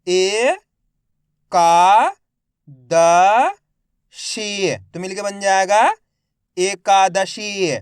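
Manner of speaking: मज़ेदार stretched very slowly and loudly; syllable by syllable demo. Shown as a demonstration. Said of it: "मेरे साथ साथ इनको repeat करना है". (अक्षर-अक्षर जोड़कर धीमे पढ़ना)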